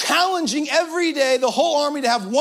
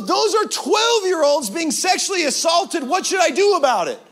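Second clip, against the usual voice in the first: mock outrage; 3 semitones higher than usual. Voicing righteous anger.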